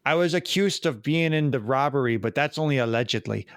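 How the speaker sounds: attempted mock Wisconsin accent; a hint of put-on Wisconsin. Shown as a demonstration. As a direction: try out a light Wisconsin accent. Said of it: "how do you say allegedly in the Wisconsin accent".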